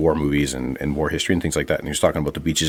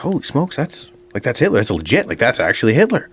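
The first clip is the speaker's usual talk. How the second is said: mock-amazed patron, pitched higher; a hint of a starstruck bar guy; 4 semitones higher than usual. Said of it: "a couple of guys start noticing, like".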